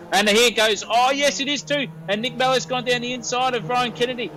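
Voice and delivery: rising pitched race call, voice lifting high; breathless race caller as the cars dive inside; excited commentary. Real, not acted. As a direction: call the overtake with mounting excitement. Excited commentary of overtaking battle.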